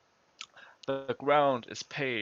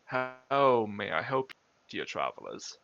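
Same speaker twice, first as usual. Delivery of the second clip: echoing voice. Acted. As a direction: speak as if echoing from a hollow robe. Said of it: "echoing voice".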